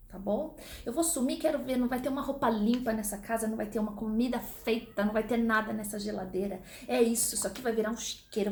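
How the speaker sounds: a fed-up mother threatening to vanish from home; mother threatening to leave. Acted. Teacher acting a mother threatening to leave the house, mock outburst. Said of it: "É frase clássica de mãe".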